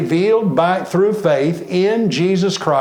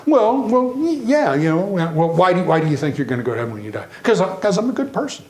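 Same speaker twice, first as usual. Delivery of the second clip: stammering, caught-off-guard churchgoer, voice jumping higher; mock hesitant answer; 3 semitones higher, faster than usual. Preacher imitating a flustered man asked about heaven, hesitant. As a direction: fumble for words like someone caught out. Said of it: "you hear something like".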